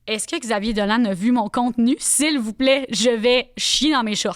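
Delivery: loud, laughing disbelief; excited disbelief. Retold or imitated. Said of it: "J'étais genre".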